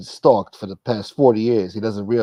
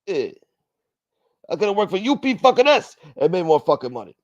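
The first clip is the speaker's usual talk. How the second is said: higher, louder whiny griping voice; put-on complainer voice; 8 semitones higher, 4 dB louder than usual. Mocking an underpaid mover, whiny complaint. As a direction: gripe like a sore underpaid mover.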